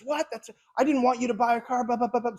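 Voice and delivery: high-pitched, hammed-up angry wife voice; mock outraged wife. Salesman imitates a customer's wife losing it, high mock outrage. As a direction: play the wife losing her mind, squeaky and shrill. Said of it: "your wife loses her mind and says".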